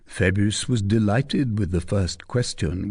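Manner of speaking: ordinary delivery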